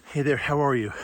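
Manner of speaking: breathless after the hike; winded, catching breath. Real, not acted. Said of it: "Sorry, I'm out of breath".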